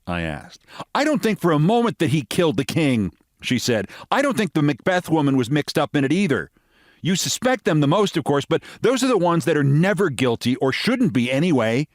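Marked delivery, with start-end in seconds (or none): 0.9-3.1 lightly voiced American lady accent; a hint of a general American voice; standard American accent. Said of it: "said the American lady". 4.1-11.9 lightly voiced American lady accent; a hint of a general American voice; standard American accent. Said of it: "said the American lady".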